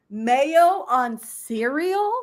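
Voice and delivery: very slow, disbelieving question; incredulous. Real, not acted. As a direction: drag it out in disbelief.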